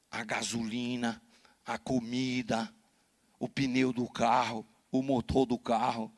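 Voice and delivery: slow, firm listing of what she loses; stern father. Retold or imitated. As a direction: lay down the law, word by word. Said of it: "eu falei". (pai severo, pausado e firme)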